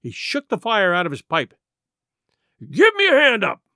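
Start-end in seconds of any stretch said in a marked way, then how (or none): 2.6-3.6 high, loud pirate cry; sharply raised, demanding shout. A narrator's reading. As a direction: yell out for help in a rage. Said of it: "he cried".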